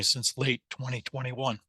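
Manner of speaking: losing voice, hoarse; strained, fading hoarse voice. Real, not acted. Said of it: "Sorry, losing my voice".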